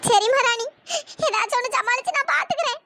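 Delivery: agreeing while holding back tears; a choked, tearful promise; tearful reassurance. Acted. (கண்ணீருடன் ஆறுதல்)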